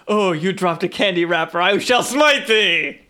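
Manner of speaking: slow booming smite thee; hammy righteous paladin voice; mock biblical prophet. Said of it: "Like, it's like".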